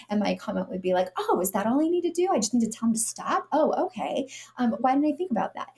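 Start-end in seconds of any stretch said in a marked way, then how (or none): 1.2-5.7 high, fast mock-innocent sarcasm; sarcastic retort. Mom answering scolding shoppers, high fast sarcasm. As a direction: play dumb to mock their advice, quick and high.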